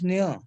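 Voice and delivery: "near" as one nyuh sound; French GN sound. Shown as a demonstration. Teacher showing learners the GN sound, French GN sound. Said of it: "So G N sound is".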